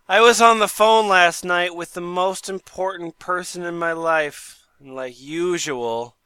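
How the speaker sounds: dramatic petition reading. Acted.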